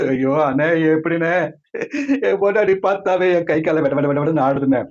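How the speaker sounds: tearful, put-on whine; mock crying. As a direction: whimper like a frightened husband. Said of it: "அழுவாத".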